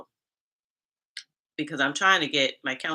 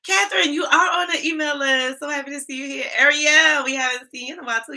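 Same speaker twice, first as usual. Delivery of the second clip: high, loud, thrilled shout-outs; excited greeting; 10 semitones higher, 6 dB louder than usual. Real, not acted. Greeting chat viewers by name, high and excited. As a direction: greet each name like a long-lost friend.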